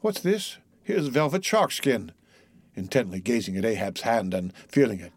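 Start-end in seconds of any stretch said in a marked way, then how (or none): 0.0-2.1 soft, hushed wonder; wondering Pip. A narrator's reading. Pip gazes at Ahab's hand and feels it, wondering. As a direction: marvel quietly at what you touch.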